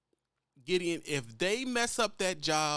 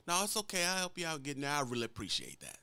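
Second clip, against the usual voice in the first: polite driver; 3 semitones lower, 3 dB quieter than usual. Retold or imitated. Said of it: "That's why they talk like that".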